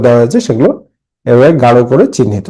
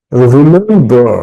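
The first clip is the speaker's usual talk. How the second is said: রিমেম্বার drawn out slowly, middle "mem" lifted; syllable stress; much slower than usual. Shown as a demonstration. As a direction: stretch রিমেম্বার, leaning on "mem". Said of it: "একটা করে হাততালি দিবে".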